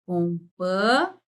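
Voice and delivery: COMPANHEI slowly, com-pa, then a long nhei; syllable by syllable. Shown as a demonstration. Teacher showing NH as one sound, slow syllables. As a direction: pause and stretch the NHEI of Companhei. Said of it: "o nhe é um só".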